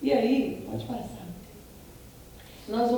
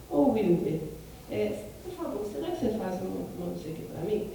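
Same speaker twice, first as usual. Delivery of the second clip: gently polite, a touch softer; polite request; 2 semitones lower, 4 dB quieter than usual. Shown as a demonstration. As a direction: ask a coworker nicely, as a favour. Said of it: "Eu tô falando assim com ele". (pedido gentil e educado)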